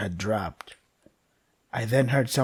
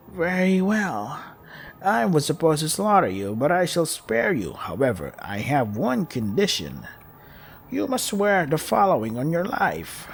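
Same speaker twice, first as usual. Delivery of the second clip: inhuman voice; 3 semitones higher than usual. Acted. Monster sparing the child and laying down its condition, slow and eerie. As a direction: pronounce the condition like an ancient spirit. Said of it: "the voice spoke very slowly".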